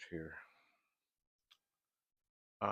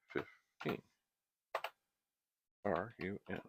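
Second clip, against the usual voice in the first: dictating each symbol while typing. Shown as a demonstration. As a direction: call out keys one by one. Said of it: "Let's try five".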